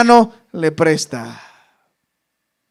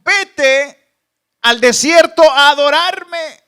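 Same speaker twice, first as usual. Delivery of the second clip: commanding voice of God; 6 semitones higher, 6 dB louder, slower than usual. Acted. Voicing God's command.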